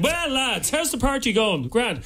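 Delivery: lightly voiced party bore making an entrance; mock-jovial party greeting, drawn into a story; imitating Adrian at parties. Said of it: "Adrian comes in".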